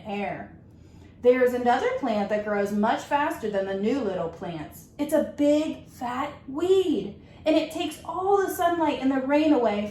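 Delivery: gentle, measured storybook reading; reading to children. Acted. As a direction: read it like story time for a class. Teacher reads picture book aloud.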